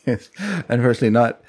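deadpan a fake film credit with a straight face; mock solemn. The speaker teasing his co-host over the wrong name, mock solemn. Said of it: "Good acting on you".

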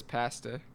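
"pasta" with A as in "cat"; flat-A pronunciation. Retold or imitated. Quoting a friend's Canadian habit, flat-A "pasta". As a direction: say "pasta" as pass-ta. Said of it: "Ben says pasta".

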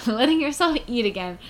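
1 laughing. Real, not acted. Rereads line laughing.

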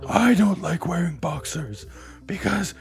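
out-of-breath impression, kinda like Batman; breathless mock woman's voice; Melissa. Shown as a demonstration. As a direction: impersonate her, winded and gruff like Batman. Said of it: "I'm also doing the out of breath thing".

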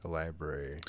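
low lisping Scottish voice; a hint of a lisping Scot; Sean Connery. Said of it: "My shitty ass Sean Connery impersonation".

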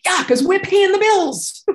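high, loud, drawn-out comeback; hammed-up exasperated husband, played for laughs; loud mock retort. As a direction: toss it back loudly as a joking jab.

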